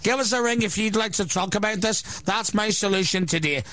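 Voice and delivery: mock radio host. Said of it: "let's have a practice for that show".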